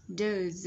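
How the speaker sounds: "Does" closing on a buzzed Z; final Z sound. Shown as a demonstration. Teacher analysing each word, "Does" with clear final Z. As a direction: finish "Does" with a voiced Z. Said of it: "Z ending sound".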